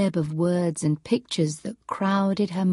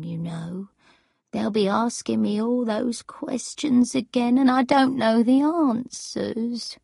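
put-on slightly worried old woman, pitched up; a touch of confusion and unease, higher voice; lightly voiced anxious gran; 4 semitones higher than usual. Gran fearing questions she can't answer, mildly anxious.

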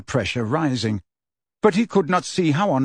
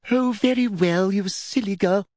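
snapping Umbridge; 7 semitones higher than usual. A narrator's reading. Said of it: "snapped Umbridge".

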